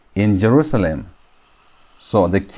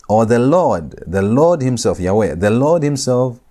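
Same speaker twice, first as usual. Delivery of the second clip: "Lord" leaned on each time it comes; repeated emphatic weight on "Lord"; stress on LORD. Shown as a demonstration. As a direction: press on "Lord" with each restatement. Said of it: "to place emphasis on Yahweh".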